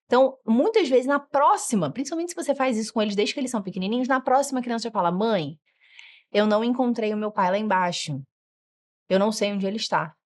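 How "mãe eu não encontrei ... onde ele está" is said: put-on calm, measured child explaining; even and polite; speaking calmly. Shown as a demonstration. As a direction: model an unflustered report to mum. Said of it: "Eles aprendem a falar com calma".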